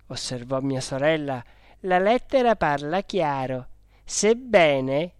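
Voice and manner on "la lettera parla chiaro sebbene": lightly acted sister arguing her case; firm, pointed insistence; insistent sister. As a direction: make the point emphatically. Sister argues from the letter's wording.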